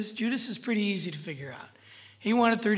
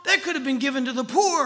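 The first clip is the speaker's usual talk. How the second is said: raised-pitch mock complaint; griping; 5 semitones higher, 4 dB louder, faster than usual. Judas complaining about wasted ointment, mock griping. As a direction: lightly imitate an indignant griper. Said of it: "the main person griping about the ointment".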